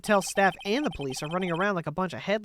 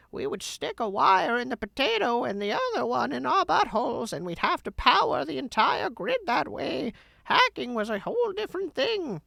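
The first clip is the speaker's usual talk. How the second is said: put-on old man voice; 5 semitones higher than usual. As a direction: complain like a cranky grandpa. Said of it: "Old man voice".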